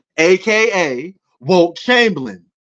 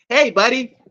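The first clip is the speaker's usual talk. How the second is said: put-on buddy-buddy white guy voice, slightly raised; mock white guy; 4 semitones higher than usual. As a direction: parody a white guy talking sports. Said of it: "I'm not white".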